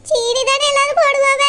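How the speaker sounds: words catching on a sob; tearful plea. Acted. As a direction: plead through tears, wounded. Accused stepmother pleads, crying.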